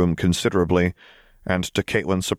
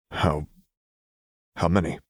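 hollow. A narrator's reading. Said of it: "Jace asked hollowly".

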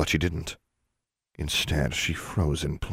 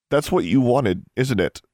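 higher, louder accusation; accusing; 8 semitones higher, 6 dB louder than usual. Acted. Daughter confronting her father, accusing. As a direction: confront him with rising indignation.

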